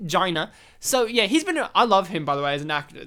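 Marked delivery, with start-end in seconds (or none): 0.1-0.5 "China" echoed with a J-like start; Donald Trump. Retold or imitated. Echoing co-host's impression, "China" in imitated pronunciation. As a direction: mimic the politician's "China", softening Ch towards J. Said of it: "how Donald Trump says China".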